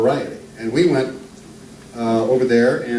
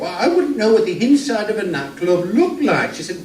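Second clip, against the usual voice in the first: lightly voiced Archie Glenn; 4 semitones higher than usual. Introduced old northern comic telling jokes to the crowd, lightly voiced. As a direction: ease into a genial old music-hall comedian.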